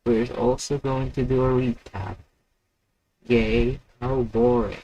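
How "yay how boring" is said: louder mock cheer, deadpan; sarcastic yay. Real, not acted. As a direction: fake enthusiasm.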